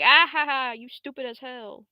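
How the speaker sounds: high, mock-villain cackle into a taunt; gloating villain laugh. Destroyer taunting the heroine, hammed-up gloating villain. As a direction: start with a big fake laugh, then jeer.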